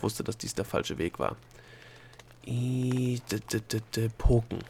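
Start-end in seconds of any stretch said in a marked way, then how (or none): 2.5-4.6 sounding out a half-remembered word, long first vowel; desperate thinking. A narrator's reading. Delia racks her brain for the word, desperately. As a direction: strain after the missing word. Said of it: "dachte sie verzweifelt".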